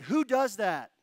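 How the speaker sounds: loud, high amazed cry, close to tears; amazed shout. Retold or imitated. A man moved to tears, asking the pastor loudly in amazement. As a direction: blurt it out in tearful disbelief. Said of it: "He said".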